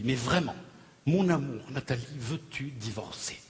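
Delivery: low, slowing, earnest question; solemn proposal. Acted. Husband solemnly asking his wife for a divorce, grave. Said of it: "je te demande solennellement".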